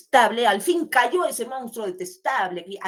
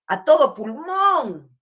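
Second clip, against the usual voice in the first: loud, slow, high-pitched proclamation; full-lunged; 5 semitones higher, 8 dB louder, much slower than usual. Shown as a demonstration. Teacher showing what shouting with great force means, full-lunged call. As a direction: belt it out slowly at full lung.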